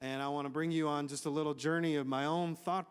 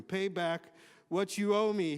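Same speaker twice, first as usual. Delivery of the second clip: slow, pressing demand, a bit louder; 4 semitones higher, 5 dB louder than usual. Acted. Servant demanding repayment from his fellow servant, slow and pressing. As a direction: lean on each word like a creditor. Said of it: "he demanded".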